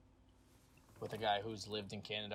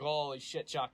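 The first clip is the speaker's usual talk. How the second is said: imitated heavy Canadian accent, raised pitch; 4 semitones higher, 4 dB louder than usual. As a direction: do an excitable Canadian buddy's accent. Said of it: "acquired the accent so hard".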